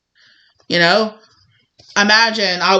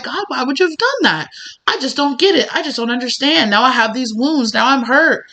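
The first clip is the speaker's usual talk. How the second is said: higher-pitched, bewildered protest; acted upset complaint; 5 semitones higher than usual. Hurt rider asking God why, upset complaint. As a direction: plead for an explanation, voice raised in pitch.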